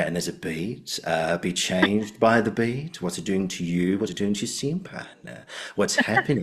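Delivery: teasing imitation of an Australian teacher's catchphrases; Andrew Davidson. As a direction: stretch key words and lift the endings. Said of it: "like, impression of him".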